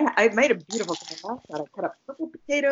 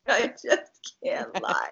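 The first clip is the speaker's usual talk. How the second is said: whispered lyric; 4 semitones higher, much slower than usual. Pretend.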